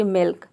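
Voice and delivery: "मिल्क" with a short, light i; short I demo. Shown as a demonstration. Teacher gives an example of the rule, short I demo. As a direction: say "मिल्क" with छोटी ई, half l, full k. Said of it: "हम ई pronounce करते हैं".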